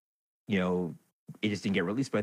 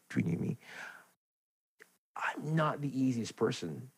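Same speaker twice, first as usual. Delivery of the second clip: whispered secret aside; confiding whisper; 6 semitones higher, 4 dB quieter than usual. Real, not acted. Host confessing to his podcast listeners in a whisper. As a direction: lean in and whisper it.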